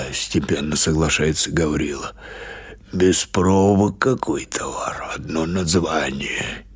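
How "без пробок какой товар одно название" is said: put-on slow, hushed whisper of an old man; whispered grumble. Gavrila grumbling to baba Pasha, slow and whispered. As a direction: breathe it out, secretive.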